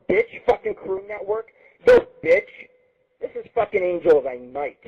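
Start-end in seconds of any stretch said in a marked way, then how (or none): 0.1-1.5 high jeering insult of the show name; mocking jeer. Real, not acted. 1.9-2.5 high, loud taunt; taunting yell. Real, not acted. Taunting rival host.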